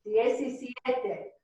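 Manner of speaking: Diez y siete said slowly as three separate words; slow phonetic breakdown. Shown as a demonstration. Teacher breaking the number into parts, slow and split. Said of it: "phonetic pronunciation".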